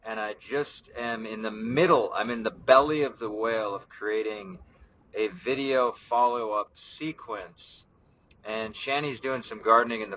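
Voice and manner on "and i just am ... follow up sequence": talking around a cigar; puffing a cigar between words; cigar in mouth. Real, not acted. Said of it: "right now I'm puffing on a cigar".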